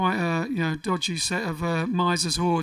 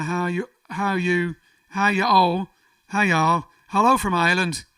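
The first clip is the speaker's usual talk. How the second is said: put-on Northern Irish accent; 4 dB louder than usual. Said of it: "I went half Northern Ireland then".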